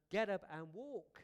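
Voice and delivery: loud command. Retold or imitated. Jesus commands the paralyzed man.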